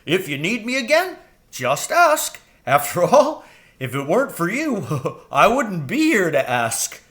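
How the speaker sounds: high, quick crow voice; eager young crow. A narrator's reading. Jeremy the crow urging Mrs Frisby home, high and anxious.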